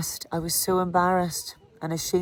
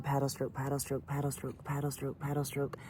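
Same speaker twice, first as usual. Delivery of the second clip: softly repeated under the breath; muttered mantra; 3 semitones lower, 10 dB quieter than usual. Retold or imitated. Rider coaching herself up the climb, a quiet mantra. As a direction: chant it to yourself like a mantra. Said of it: "I was saying".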